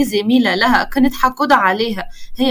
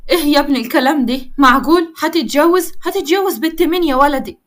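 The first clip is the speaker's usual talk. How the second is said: surprised excitement; 3 semitones higher than usual. Acted. Mother surprised at son's marriage.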